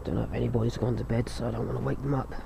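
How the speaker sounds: hushed so as not to wake anyone; talking quietly. Real, not acted. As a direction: keep it low, people may be sleeping. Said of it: "I'm gonna talk quiet".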